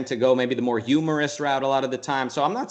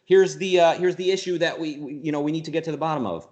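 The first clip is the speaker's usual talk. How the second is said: eager excitement; 4 semitones higher than usual. Retold or imitated. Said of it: "I want to see a certain excitement".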